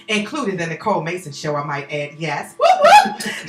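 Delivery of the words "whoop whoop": high, quick celebratory call; a little party shout-out; playful whoop. Real, not acted. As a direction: cheer it like a fan. Hyping guest's show credits.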